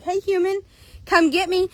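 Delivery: high-pitched talking horse; horse calling out. Acted. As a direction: beckon a human as an eager horse, voice lifted. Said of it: "He nickered from her".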